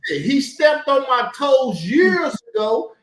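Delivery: slow, loud, drawn-out accusation; angry shout. Real, not acted. Heated argument shout.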